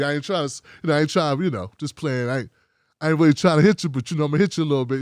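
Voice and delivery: a playful jab, delivered low and casual; a hint of a low teasing fan voice; imitating a teasing viewer. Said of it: "That's what black people say".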